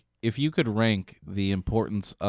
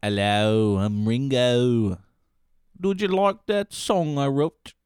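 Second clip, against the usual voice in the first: Impression of a singer; slower than usual. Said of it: "your Ringo impression".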